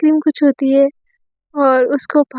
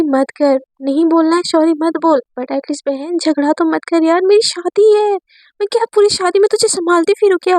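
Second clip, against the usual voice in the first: exasperated plea, higher and quicker at the end; frustrated bride; 3 semitones higher than usual. Acted. Bride Aisha tells Divya to stop fighting, frustrated. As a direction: at her wits' end, begging for peace.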